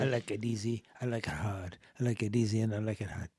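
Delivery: very soft, low singsong; absent-minded murmur. Real, not acted. Cohost drifting off as if at home, murmuring very softly and low. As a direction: murmur it idly to yourself.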